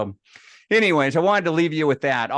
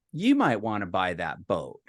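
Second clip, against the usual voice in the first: lower, falling end on a sales hint; casual suggestion; 5 semitones lower than usual. Retold or imitated. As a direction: float the idea as a brother's pitch. Brother's sly suggestion in retold call.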